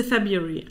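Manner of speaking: "February" with its first R left out; dropped first R. Shown as a demonstration. Host tells viewers how they say it, dropped first R. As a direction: leave out the R after the b in "February". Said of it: "don't think I pronounce the first R".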